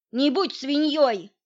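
громко выкрикнуть, выше обычного; бросить укор хором с другом; громкий упрёк. A narrator's reading. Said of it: "почти в один голос воскликнули". (возмущённый громкий возглас)

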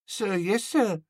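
put-on high small boy voice; barked sir yes sir. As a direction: snap it back like a little cadet. Boy answers again.

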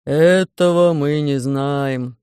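раздумчиво и медленно, гулким басом; спокойно рассуждая; философски. Acted. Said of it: "философски заметил Громозека". (Громозека философски замечает)

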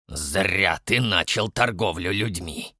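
low, slow otherworldly hiss. Acted. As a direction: hiss it like a demon from beyond. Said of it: "прошипел Дон потусторонним голосом". (потусторонний шёпот демона)

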